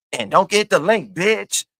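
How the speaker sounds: mock Jay Wilson. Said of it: "he don't even say it right".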